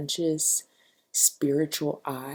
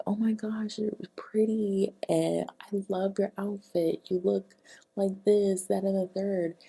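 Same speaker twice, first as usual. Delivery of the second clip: gushing fan; 4 semitones higher than usual. Retold or imitated. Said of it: "women come up to me and be like".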